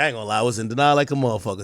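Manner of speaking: normal talking voice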